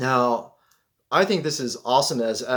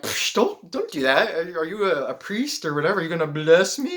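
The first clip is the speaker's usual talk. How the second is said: mock indignation; 3 semitones higher than usual. Acts out objecting to being blessed.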